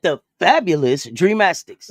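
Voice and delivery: slow, laughing showman's intro of The fabulous Dreamastics; grand announcement. Shown as a demonstration. Asked to repeat it, she gives the name the same flourish. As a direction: say it like a proud emcee. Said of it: "you gotta say it like that".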